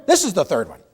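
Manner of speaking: correcting with a laugh; laughing correction. Retold or imitated. Wife laughing while correcting her husband. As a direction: insist through a chuckle. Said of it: "And she says".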